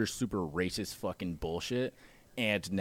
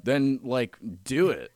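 loud insistent dare; 6 semitones higher, 8 dB louder than usual. Retold or imitated. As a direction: push him loudly to do it. Repeating the dare.

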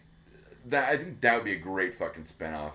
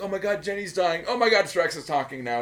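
mock viewer dismay; 10 semitones higher, 6 dB louder than usual. Viewer's reaction voiced.

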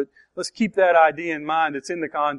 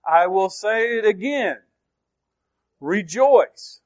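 raised, deliberate, falling hard on "again" and "Rejoice"; emphatic repeat; 4 semitones higher, slower than usual. Shown as a demonstration. Preacher shows the writer insisting, emphatic. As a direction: set "Rejoice" apart after a pause, pitched up. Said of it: "so important that I'm gonna tell you again".

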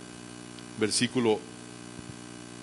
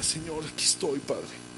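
soft, private address to God; intimate prayer; 6 dB quieter, slower than usual. Acted. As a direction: fade away softly on the last word. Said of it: "una relación personal de Dios y ella". (oración íntima, en voz baja)

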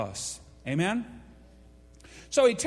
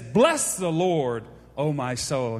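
slow, lower, solemn reading of "Bless the Lord"; "Bless the Lord, O my soul" drawn out slow and low; King James recitation; 7 semitones lower, slower than usual. Shown as a demonstration. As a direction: savour the old words slowly and low. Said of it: "the way the King James writes".

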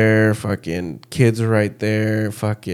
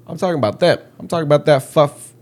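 retold angry correction; 4 semitones higher, faster than usual.

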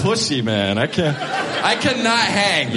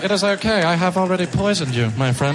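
calm German. Retold or imitated. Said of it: "The German will be like".

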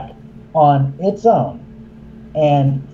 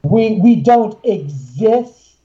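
mock spirit; 5 semitones higher than usual. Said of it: "the spirits say".

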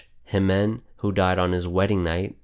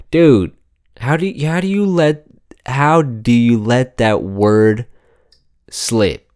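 incredulous laughing outrage; 3 semitones higher, 6 dB louder than usual. Real, not acted.

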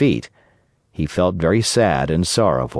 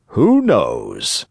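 put-on calm, slightly lower old father; 3 semitones lower than usual. Geppetto answers Pinocchio's angry refusal, calmly. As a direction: answer evenly, unruffled. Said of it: "repeated Geppetto calmly".

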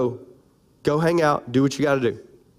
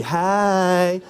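a big, loud "Hey." from the chest; loud chesty hey; 3 dB louder than usual. Shown as a demonstration. Preacher demonstrating to the ladies a big, loud hey. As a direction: show the ladies how to say "Hey." with your chest. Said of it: "I can do it better than you".

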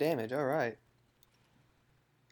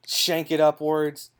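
gross stabbing noise; 4 dB louder, slower than usual. Acted. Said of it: "Don't make that noise ever again".

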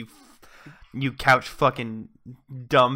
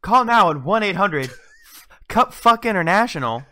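slightly higher salesman pitch; infomercial; 3 semitones higher than usual. Pretend. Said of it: "throughout the entire advertisement".

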